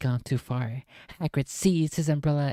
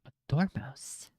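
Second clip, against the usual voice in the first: slow unvoiced whisper; 7 dB quieter, slower than usual. Real, not acted. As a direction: breathe the word slowly. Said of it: "whispered word".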